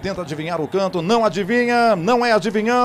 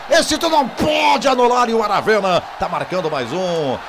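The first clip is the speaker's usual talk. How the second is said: excited; 2 semitones higher than usual. Real, not acted. Taunting the referee.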